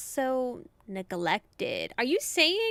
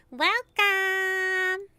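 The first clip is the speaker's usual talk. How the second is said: higher, louder gushing welcome; bright welcome; 8 semitones higher, 5 dB louder than usual. Shown as a demonstration. Psychic character welcoming the visitor, higher and louder. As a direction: throw it out warmly to the guest. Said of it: "two readings of welcome".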